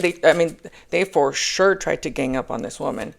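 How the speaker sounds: normal talking voice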